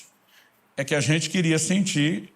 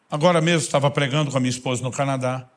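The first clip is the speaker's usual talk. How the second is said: ordinary delivery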